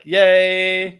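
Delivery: sudden high bright "yay"; mock cheer. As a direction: cheer like a thrilled fan. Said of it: "You're like".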